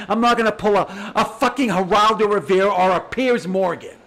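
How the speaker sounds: scornful laugh through the words; laughing scornfully. Real, not acted. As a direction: laugh them off as you list the names. Laughs while naming TV hosts.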